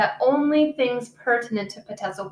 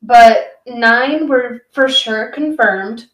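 slow words with a sharp teeth whistle; whistling through teeth; 6 dB louder, much slower than usual. Real, not acted. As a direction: let air whistle through your teeth. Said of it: "That was a loud whistle".

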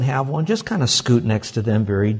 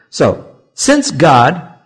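slow emphatic since; 3 semitones higher, 6 dB louder, much slower than usual. Shown as a demonstration. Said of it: "emphasis on since".

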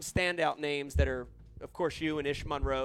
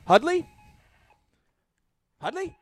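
calling out; 13 semitones higher, 9 dB louder than usual. Acted. Calling out to correspondent.

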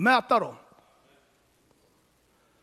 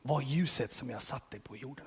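low, soft retold divine prompting; Holy Spirit speaking; 7 semitones lower, 9 dB quieter than usual. The Holy Spirit speaks to his heart, hushed and low. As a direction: lightly voice a quiet inner word. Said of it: "Där sa helige anden till mig".

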